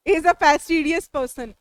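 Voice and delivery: very slow, each word spaced out; slow example sentence. Shown as a demonstration. Teacher dictating a model sentence, very slow. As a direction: dictate it slowly for the class. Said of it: "sentences भी बना सकते हैं".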